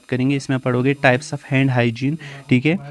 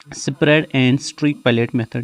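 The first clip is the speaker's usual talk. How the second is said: slow dictation; much slower than usual. Shown as a demonstration. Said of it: "इसमें आप पढ़ोगे".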